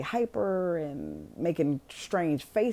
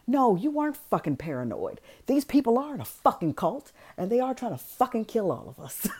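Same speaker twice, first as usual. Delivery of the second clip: excited shout; 5 semitones higher than usual. Real, not acted. Telling the audience the cult wants them dead, excited shout. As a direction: blurt out the twist in real excitement. Storyteller's big twist reveal.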